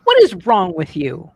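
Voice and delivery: high, loud mock disbelief; hammed-up outrage. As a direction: shriek your fake shock. Mock outrage at friend's offer.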